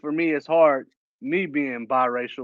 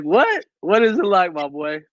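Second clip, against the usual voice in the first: loud mock outrage; 2 semitones higher, 4 dB louder than usual. Quoting a startled local, loud mock outrage. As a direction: bark it out like you just spotted him. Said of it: "It's like".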